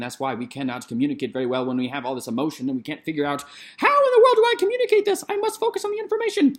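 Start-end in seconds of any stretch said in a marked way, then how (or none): 3.8-6.6 high, fast and a little panicked; frantic inner voice. Retold or imitated. An INTP panicking over how to say it, high and fast. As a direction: race through it like a flustered mind. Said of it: "That's what it feels like for an I N T P".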